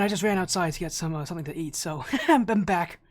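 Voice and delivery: slightly winded after running back; out of breath. Real, not acted. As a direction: talk while catching your breath. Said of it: "Sorry, I'm out of breath".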